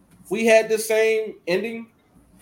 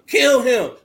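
mock yell; 6 dB louder than usual. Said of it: "I was trying to tell them".

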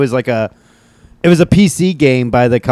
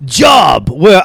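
put-on shouted Asian accent; 6 semitones higher, much slower than usual. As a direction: yell it in a broad Asian accent. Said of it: "doing a really thick Asian accent".

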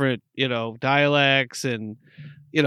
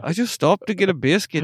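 half-hearted mock British accent; retry the clumsy British accent; bad British accent. Transplant to Isla explaining himself, bad British accent. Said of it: "how you would sound after a few years living on Isla".

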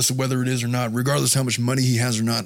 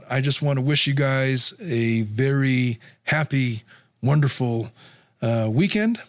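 hoarse voice. Real, not acted. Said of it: "before my voice gives out".

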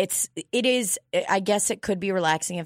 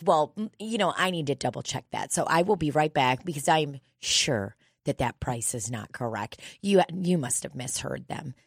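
condescending receptionist; 4 semitones lower than usual. Retold or imitated. Voices the doubting receptionist.

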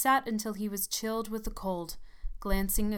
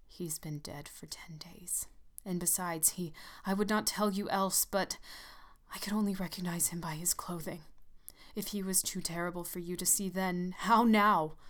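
shaking voice. Acted. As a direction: speak with a shaking, frightened voice. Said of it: "and his voice shook".

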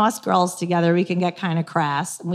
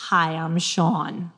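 lower, slow, smooth introduction; imitating boyfriend; 4 semitones lower, 4 dB quieter, slower than usual. Boyfriend introducing himself, low and slow in mock-smooth voice. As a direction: lightly voice a confident man. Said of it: "puts his hand out and says".

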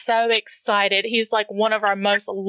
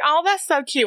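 higher-pitched adoring reaction; cooing; 5 semitones higher than usual. Retold or imitated. Host hearing other people's country accents, cooing. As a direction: coo it like something adorable.

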